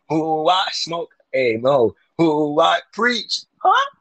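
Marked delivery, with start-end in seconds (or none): 0.1-1.1 drawn out like a preacher; slow, drawn-out mock preacher; slow preacher imitation. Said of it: "Preacher said". 2.2-3.4 slow and drawn out, rising; slow preacher imitation. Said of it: "Preacher said".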